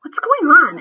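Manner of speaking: a touch of a firm teacher; teacher asking. Acted. Missus Olson asks the arguing kids what's happening. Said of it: "asked Missus Olson".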